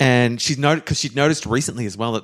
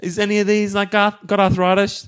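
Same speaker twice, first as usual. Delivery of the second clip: mock innocent question; 7 semitones higher than usual. Nancy asks shopkeeper, high voice.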